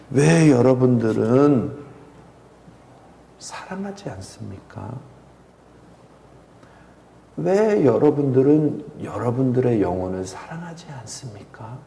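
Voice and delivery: hushed, slow, tearful question; mild weeping plea. Retold or imitated. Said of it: "하고 우시는 거예요".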